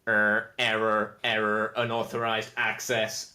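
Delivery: slow, stuttering machine voice; a faltering servitor repeating error; glitching robot. Acted. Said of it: "the four of them in unison turn to you and say".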